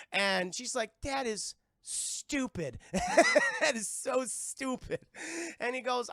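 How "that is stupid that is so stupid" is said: slow, drawn-out scoff through laughter; laughing scoff. Retold or imitated. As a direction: drag it out while cracking up.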